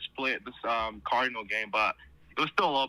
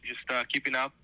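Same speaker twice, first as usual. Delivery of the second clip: phone speaker; 3 dB louder than usual. Real, not acted. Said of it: "I got you on speaker".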